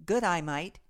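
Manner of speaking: quick Aussie good day mate; Australian accent. Shown as a demonstration. Host prompting co-host in Aussie accent. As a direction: toss it off like an Aussie. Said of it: "Say it".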